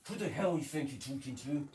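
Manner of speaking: lightly voiced cross mum; Mum impression. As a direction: scold like an annoyed mum.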